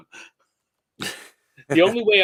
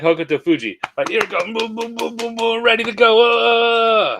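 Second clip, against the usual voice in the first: pumped up; 9 semitones higher, 6 dB louder than usual. Retold or imitated. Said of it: "I'm like".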